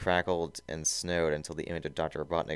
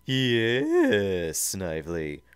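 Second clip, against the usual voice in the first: loud, raised seethe; seething Robotnik; 3 semitones higher, 6 dB louder, much slower than usual. Acted. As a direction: seethe at an underling. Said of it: "Robotnik seethed".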